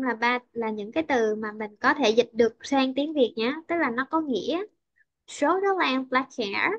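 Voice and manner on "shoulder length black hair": Shoulder length black hair lifted at the end; rising list intonation. Shown as a demonstration. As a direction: raise the pitch on hair as a list item. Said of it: "cô đọc cao lên nhé".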